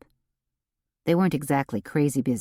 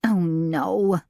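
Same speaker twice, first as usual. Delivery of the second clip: scolding. A narrator's reading. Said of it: "Delane scolded".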